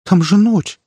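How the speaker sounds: alarmed at the dark; frightened cry. A narrator's reading. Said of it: "робко осведомилась Симонова дрожащим голосом". (испуганно, высоко и громко)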